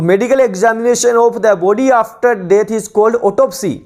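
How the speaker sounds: slow, deliberate reading of a definition for students to copy; measured classroom dictation, every word spaced; dictation pace. Shown as a demonstration. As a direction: read it out word by word like a teacher dictating.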